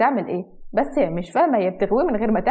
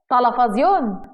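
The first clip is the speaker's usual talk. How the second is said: incredulous echo; 3 dB louder, much slower than usual. Acted. Husband questions wife's excuse, incredulous. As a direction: echo the word back in disbelief. Husband echoes her in disbelief.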